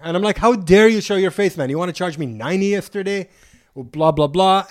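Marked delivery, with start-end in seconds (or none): 0.4-3.3 indignant telling-off, pitched up a little; confronting him, mildly heated re-enactment; retold anger. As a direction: play back your outrage at the driver. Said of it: "You know, very angry".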